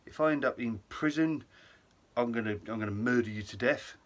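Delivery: hammed-up panic turned to fury; mock furious friend. Friend blaming Robbie at customs, mock furious. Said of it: "James is looking at me as if to say".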